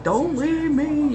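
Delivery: high, slow whimpering plea to the dog, played up; mock tearful plea. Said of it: "and I'm like".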